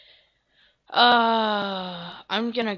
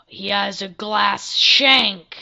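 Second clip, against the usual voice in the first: panicked alarm; 10 dB louder, much slower than usual. Real, not acted. Player spotting a glass shank, panicked shouts. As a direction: sound the alarm and flee.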